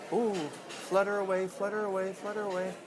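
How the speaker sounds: high, dreamy little fish. Acted. Dad voicing a fluttering fish for his kids, high. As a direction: float the words like a fluttering fish.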